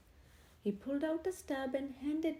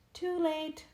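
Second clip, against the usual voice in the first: louder, firm refusal; vicar's firm reply; 5 semitones higher, 5 dB louder than usual. A narrator's reading. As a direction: shut him down firmly. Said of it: "the vicar told Henry".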